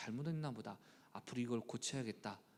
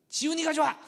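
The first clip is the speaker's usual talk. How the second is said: mock childish revenge; 14 semitones higher, 12 dB louder than usual. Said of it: "여섯 번 복수했는데".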